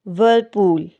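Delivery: व्हर्लपूल said with the R left silent. Shown as a demonstration. Teacher giving viewers the English word, R silent in व्हर्लपूल. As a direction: say व्हर्लपूल without sounding the R. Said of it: "silent होगा".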